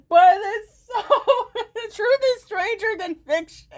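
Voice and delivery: high voice breaking into laughter; laughing. Real, not acted. Streamer admitting the obsession is real, laughing. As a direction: talk through the laugh.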